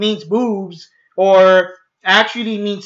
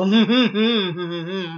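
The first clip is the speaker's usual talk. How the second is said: soft, closed-mouth evil chuckle; villain chuckle; 5 dB quieter than usual. Retold or imitated. Villain relishing the end of mortals, soft mock chuckle. Villain's laugh closing the impression.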